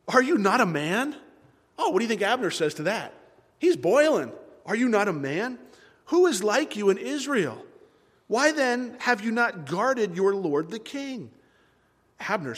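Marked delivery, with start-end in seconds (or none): 0.1-1.2 raised, challenging taunt; mock yell. David taunting Abner from the distance, yelling. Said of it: "just yelling these things". 4.6-11.3 raised, challenging rebuke; mild yelling. Acted. David confronting Abner from a distance, calling out. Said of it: "just yelling these things".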